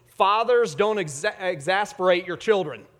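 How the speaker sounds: put-on loud, emphatic little-girl quote; with gusto. Daughter teasing her father from Bible verse, loud with gusto. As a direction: belt it out to tease her dad. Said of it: "she says it with gusto".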